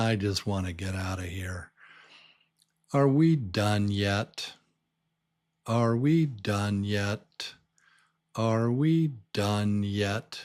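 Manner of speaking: bored, dead-level monotone drone with no rising pitch. Demonstrating a bored character whose question doesn't sound like a question, bored monotone. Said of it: "the voice is very monotone".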